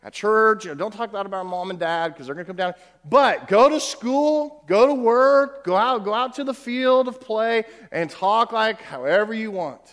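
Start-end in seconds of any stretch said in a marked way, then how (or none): 3.1-7.2 mock permissive urging. Real, not acted. Preacher mocks double life.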